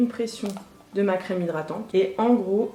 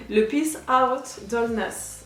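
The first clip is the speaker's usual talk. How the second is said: English accent; much slower than usual. Shown as a demonstration. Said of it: "Je pense que c'est mieux comme ça".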